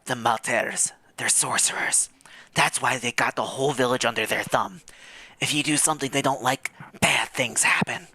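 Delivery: hushed secret whisper. Acted. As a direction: lean in and whisper it. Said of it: "and whispers".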